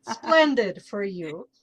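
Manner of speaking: slow, played-up Mexican accent; showy Mexican accent, punching the first word. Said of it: "That's my Mexican accent".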